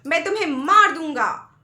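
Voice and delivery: put-on the boy yelling back in anger; angry yell. A narrator's reading. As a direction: yell the threat at the valley. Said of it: "बच्चा फिर चिल्लाया".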